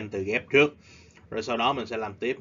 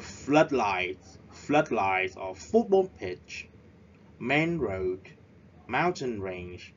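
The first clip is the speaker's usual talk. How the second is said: "floodlights", "football pitch", "main road", "mountain range" with the first part stressed; first-word stress; much slower than usual. Shown as a demonstration. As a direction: lean on FLOOD, FOOT, MAIN and MOUN, letting the second part drop. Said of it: "the first word is stressed".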